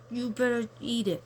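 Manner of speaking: hushed mock threat from dad; whispered warning. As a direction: whisper it like a stern father. Father's stern warning retold.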